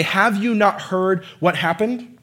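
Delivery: slow, incredulous retold question; mock disbelief, drawing out the words; sarcastic rebuke. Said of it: "rebuke Jesus sarcastically".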